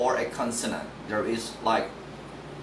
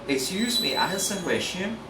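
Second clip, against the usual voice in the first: braces lisp; 3 semitones higher, 4 dB quieter than usual. Retold or imitated. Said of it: "as if you got some braces".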